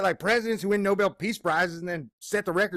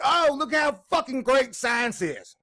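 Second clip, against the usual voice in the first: mocking quote; 6 semitones higher, slower than usual. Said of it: "they're gonna be like".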